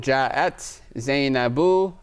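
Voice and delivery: "Ja'at Zainabu nafsuha" spoken very slowly, word by word; carefully paced Arabic demo; slow example sentence. Shown as a demonstration. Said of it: "if I said".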